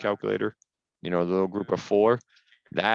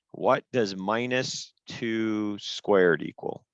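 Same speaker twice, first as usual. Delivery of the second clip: slow asking; much slower than usual. Retold or imitated. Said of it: "I always ask".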